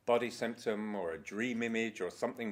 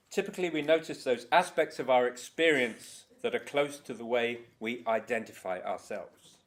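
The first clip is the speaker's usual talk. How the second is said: a touch louder, measured reading voice; reading aloud; 3 dB louder than usual. Acted. Teacher reading a passage from Meta Skills, lightly read. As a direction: read the quote to the group. Reads from a book.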